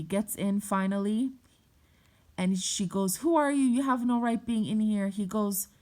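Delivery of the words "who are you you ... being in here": raised, higher-pitched challenge; indignant mom. Retold or imitated. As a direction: imitate a mother's indignant objection. Mom confronting the man, retold.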